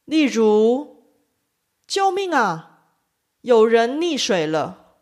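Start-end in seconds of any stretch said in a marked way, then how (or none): 1.9-5.0 a half-hearted call for help, light “啊”; 轻声“啊”的呼救示范; mock cry for help. Shown as a demonstration. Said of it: "通常会发成轻声".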